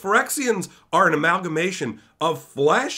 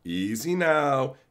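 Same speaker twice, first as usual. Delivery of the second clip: calming; slower than usual. Retold or imitated. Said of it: "Be chill".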